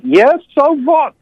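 imitating grandmother's Hungarian accent, high and slow. Grandson imitating Hungarian grandmother's reply, high, slow Hungarian accent. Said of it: "in her Hungarian accent".

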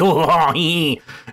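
high, loud mock detective chortle; Poirot chortle. Critic finishing the detective impression, hammy chortle. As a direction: cap the impression with a showy high cackle. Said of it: "he's doing the Poirot voice".

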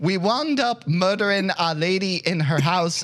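hammed-up Irish brogue; pseudo-Irish accent. Podcaster reading a listener's question as written, mock Irish. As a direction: read it in a jokey Irish lilt. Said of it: "pseudo-Irish speech".

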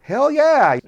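loud, high mock bravado; cocky hell yeah. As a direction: sell it big just to tease them. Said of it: "just to mess with them".

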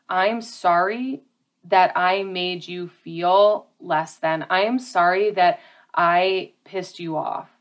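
a genuine sorry that takes responsibility; sincere apology. Shown as a demonstration. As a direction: apologize like you truly mean it. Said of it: "that's not what we're saying here".

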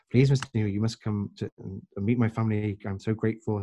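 lightly voiced Indian accent, imploring. Grateful man begging his guest to meet his family, light Indian accent. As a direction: plead politely with a touch of Indian English. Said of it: "in an Indian accent".

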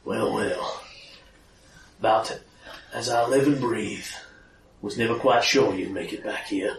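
low, half-whispered gravelly growl; low gravel vigilante growl. Acted. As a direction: growl it like a weary gunslinger. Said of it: "more your vigilante voice".

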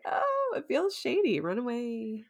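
high, airy mock alarm; mock nervous retreat. Sensible people fleeing a shady storage unit, mock nervous. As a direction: squeak it high, then trail off.

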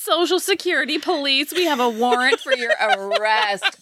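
high robotic scam call voice; spam caller. Retold or imitated. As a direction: read it like a scam robocall. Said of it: "you can hear the phone call".

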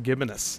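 gibbous said as "gibbonous", with an extra syllable; mispronounced word. Shown as a demonstration. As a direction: add an extra middle syllable to make "gibbonous". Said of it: "I always thought it was pronounced".

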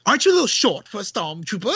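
quick mock British princess line; lightly hammed-up British accent; Leia. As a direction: put on a British damsel accent, briskly. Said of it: "how George wanted Princess Leia to talk".

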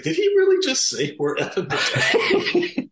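high disbelieving question through laughter; incredulous, cracking up; laughing disbelief. Retold or imitated. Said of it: "looking at us like".

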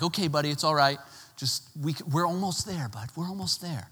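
imitated patient, reassuring father; encouraging dad. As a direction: coax a whining child along patiently. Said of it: "you try the encouragement way first".

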